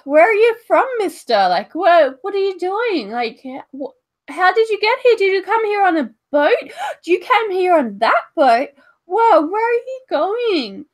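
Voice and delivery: put-on high, loud, rapid child voice; excited kid. Children swarming the giant, high and breathless. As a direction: pepper him with questions like an eager kid. Kids pestering the giant with questions.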